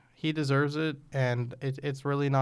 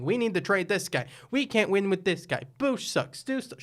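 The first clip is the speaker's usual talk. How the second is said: higher-pitched parody of complaining fans; mocking fans; 4 semitones higher than usual. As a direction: mimic fans crying for trades. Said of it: "people I saw online being".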